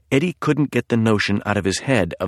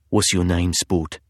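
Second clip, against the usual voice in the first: put-on husky British accent; 3 semitones lower than usual. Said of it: "a man's husky voice".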